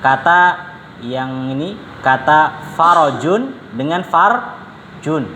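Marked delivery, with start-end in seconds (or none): 2.0-5.3 farojun and farjun spelled out slowly, the r with a vowel then without; slow contrast of farojun and farjun; careful vowel contrast. Shown as a demonstration. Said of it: "Kalau roknya di fathah".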